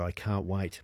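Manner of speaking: ordinary delivery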